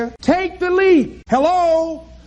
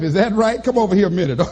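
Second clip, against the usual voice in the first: lower, mock-menacing voice of life; mock threat from life, voiced much lower; life as a bully; 7 semitones lower, faster than usual. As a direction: lure him over like a bully. Life toying with the dreamer.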